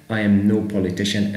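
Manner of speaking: slow, settled read; slow demo of right answer. Shown as a demonstration. Teacher to students, confirming the correct sentence slowly. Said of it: "هي رقم بي politician".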